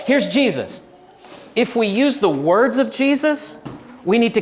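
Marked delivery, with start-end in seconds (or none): 0.1-0.8 mock shout. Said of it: "we try to say".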